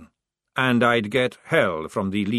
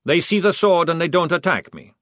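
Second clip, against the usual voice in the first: patient; 4 semitones higher, 4 dB louder than usual. Acted. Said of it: "said Maledict patiently".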